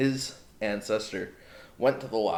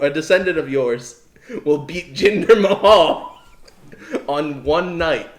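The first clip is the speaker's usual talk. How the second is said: loud, higher, hammed-up Scottish monster voice, breaking into laughs; bad Scottish accent; 5 semitones higher, 8 dB louder than usual. Podcaster mimics Loch Ness Monster's prophecy, terrible hammed-up Scottish accent. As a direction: declaim grandly in a badly faked Scottish accent. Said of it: "do a really bad accent here".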